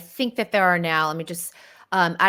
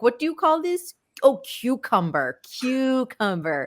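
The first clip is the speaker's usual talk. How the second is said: put-on Spanish accent; 6 semitones higher than usual. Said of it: "Like, quoting Hilaria's accent".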